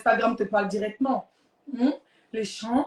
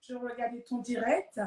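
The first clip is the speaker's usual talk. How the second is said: soft French in a put-on English accent; 7 dB quieter than usual. Leslie says she watched the livestream, soft English accent. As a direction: imitate an English speaker trying French, ending on a lilt. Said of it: "il fait un peu l'accent anglais".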